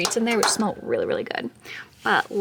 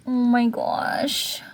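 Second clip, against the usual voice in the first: whispering; much slower than usual. Real, not acted. Whispered awe at hamster.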